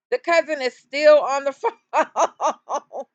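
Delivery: slow, laughing through the words; real amused laughter; laughing repeat. Real, not acted. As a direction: savor the absurdity while laughing.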